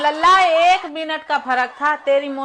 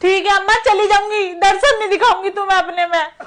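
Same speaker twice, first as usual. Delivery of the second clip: raised, higher voice, sulking at her mother; a daughter storming off at her mother, indignant; indignant complaint; 4 semitones higher, 3 dB louder than usual. Acted. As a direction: huff off in a wounded temper.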